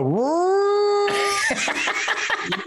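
long high horn-like "wooo"; imitated horn blast. Comedian mimicking his fart as a horn blast. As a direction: blow it like a ram's horn. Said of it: "It was like a".

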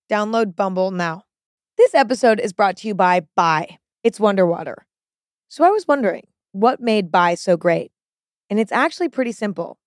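breeze through the ad copy lightly; host-read ad. Acted. Host-read sponsor ads.

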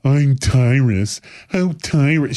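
slow, drawn-out mock TV-man voice; mocking impression. Georgie mocking his stage name, slow and drawn out. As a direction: drag it out to tease. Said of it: "as Georgie say".

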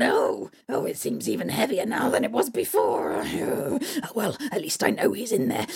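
groaning strained hag; troll hag. Acted. Troll hag lifts the heavy bag, groaning. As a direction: strain under the load.

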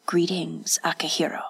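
a softly spoken host's cordial welcome; cordial greeting. Acted. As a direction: greet him politely and softly. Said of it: "Yasutoki said cordially".

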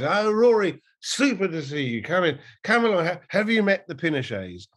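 lightly gushing society-host voice; David Frost impression. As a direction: welcome them in like a fawning TV host. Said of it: "he's sort of going".

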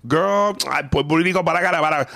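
high, sassy put-on voice; sassy trans character. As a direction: camp it up as a sassy cab passenger. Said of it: "Puerto Rican transvestite".

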